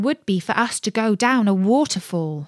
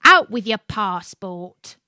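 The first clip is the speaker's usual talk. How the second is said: barking rat; 5 dB louder than usual. Acted. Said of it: "asked the rat".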